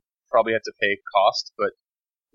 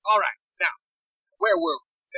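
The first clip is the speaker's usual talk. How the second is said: intense female voice; 8 semitones higher than usual. Acted. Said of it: "intense female voice".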